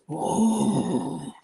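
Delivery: a high, breathy animal "Whoa" sound; light imitation of a pet's whoa sound; animal noise. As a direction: mimic a pet's sleepy moan. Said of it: "occasionally goes".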